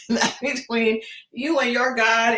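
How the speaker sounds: laughing while saying it. Pretend. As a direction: repeat it through a laugh. Repeated with a laugh.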